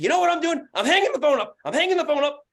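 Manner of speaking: loud, high retold outburst; freaking out. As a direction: announce it at the top of the temper. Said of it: "I'm freaking out".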